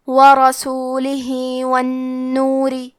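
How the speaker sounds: ورسولہ with the final ہ vowel stretched two beats; short madd. Shown as a demonstration. Teacher demonstrates madd sila on ورسولہ. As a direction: lengthen the hi of ورسولہ for two counts, slow. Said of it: "اپنی آواز دو مد کے برابر لمبی کریں گے".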